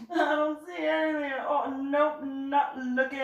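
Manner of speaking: comic see-nothing act; feigned innocence. Retold or imitated. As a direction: play innocent in a high voice. David pretends to see nothing.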